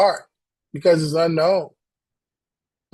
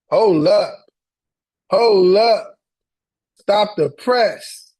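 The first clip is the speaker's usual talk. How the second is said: loud and pitched up, stopping everything; excited hold up; 2 semitones higher, 6 dB louder, slower than usual. Real, not acted. Coach stops mid-call, loudly excited. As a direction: halt the room, loudly excited.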